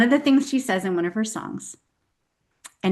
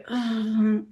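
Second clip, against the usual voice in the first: disgusted groan. Acted. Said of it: "my human knee-jerk reaction".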